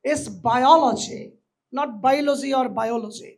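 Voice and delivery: biology said very slowly, then the wrong versions; right versus wrong biology. Shown as a demonstration. Teacher to students, slowly contrasting biology pronunciations. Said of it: "অনেকে আবার সুন্দর করে বলে বায়োলজি".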